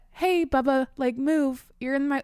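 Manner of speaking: mock-gentle version of asking the dog to move; mild casual request. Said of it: "it was not just like a".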